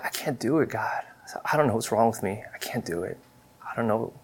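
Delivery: hushed, defeated plea to God; a father at his lowest, quietly begging God, hushed and despairing; quiet broken prayer. Retold or imitated. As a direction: pray it quietly, like you've run out of strength.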